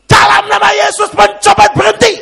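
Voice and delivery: very high, loud yell; imitated shouted command. Pastor chasing a pickpocket orders him to stop, imitated shout. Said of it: "dia langsung teriak".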